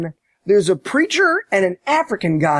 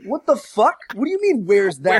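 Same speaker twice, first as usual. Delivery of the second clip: incredulous outburst; 4 semitones higher than usual. Retold or imitated. His own outraged reaction.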